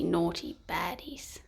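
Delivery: hushed whisper of naughty baddies. A narrator's reading. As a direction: drop to a whisper. Closing refrain whispered.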